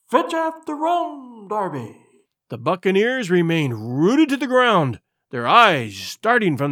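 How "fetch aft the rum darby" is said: high, slow far-off call fading at the end; ghostly hail. Acted. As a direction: call it from the distance, dying away. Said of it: "then rising a little higher".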